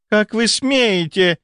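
high, slow, outraged question; indignant. A narrator's reading. Merchant's daughter outraged at the baroness, indignant. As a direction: take offence, drawing it out. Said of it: "возмутилась купеческая дочь".

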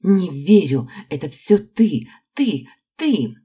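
hysterical scream. A narrator's reading. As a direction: scream it, losing all control. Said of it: "Её шёпот перерос в истеричный крик".

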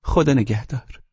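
high, lightly voiced woman saying goodbye; a gentle parting word; wife's farewell. A narrator's reading. Wife saying goodbye to her husband at the train.

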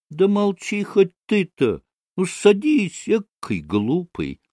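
high, irritated retort, dropping at the end; spiteful annoyance. A narrator's reading. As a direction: snap back at him in vexation. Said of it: "Со злобной досадой огрызнулась". (огрызаясь с досадой)

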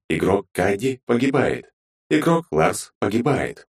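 slow, even game log readout; slow system voice listing kills; system announcement. Acted. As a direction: read each death like a system notice. Game system kill log read.

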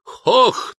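very high, loud barbarian roar; German warriors charging with a cry; war cry. Acted. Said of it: "с криком".

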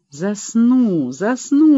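reassuring. A narrator's reading. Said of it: "успокаивала её Света".

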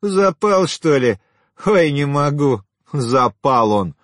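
woman's loud, high-pitched amusement; merry mockery. A narrator's reading. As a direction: tease him as if highly tickled. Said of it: "вдруг весело рассмеялась".

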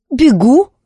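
put-on high boy's voice, matter-of-fact; simple answer. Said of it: "просто ответил Зар". (просто, высоким мальчишеским голосом)

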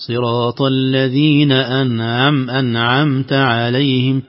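أنعمت عليهم said slowly with a clear ع; slow, careful recitation; recited demo. Shown as a demonstration. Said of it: "لو قلنا". (نطق متأنٍ للعين في أنعمت)

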